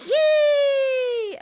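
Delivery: high shouted yay; shrill yay. Pretend. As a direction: cheer it out. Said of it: "Sound like a witch".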